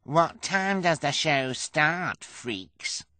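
high, loud, drawn-out heckle; slow, taunting question; jeering demand. A narrator's reading. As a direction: call out, then drop on the insult. Heckling woman demands the show.

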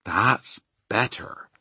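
slow, drawn-out relief; relieved giant. Acted. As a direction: let it out slowly, relieved.

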